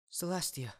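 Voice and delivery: calling out. Acted. Luna bursting in calling out.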